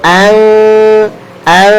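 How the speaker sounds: "ang" as a light, unrounded hum; correct thin nasal. Shown as a demonstration. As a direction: keep "ang" thin, humming toward f. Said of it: "Yang betul".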